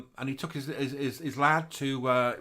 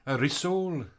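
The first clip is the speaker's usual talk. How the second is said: put-on Welsh accent; slower than usual. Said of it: "You have to say it in Welsh accent".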